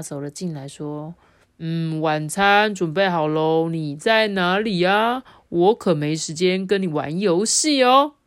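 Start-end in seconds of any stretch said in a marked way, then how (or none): 1.6-8.1 slow, louder father's voice; lightly voiced father, stretched words; storybook dad. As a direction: voice a dad looking for his hiding child, drawn out. Dad voiced entering room.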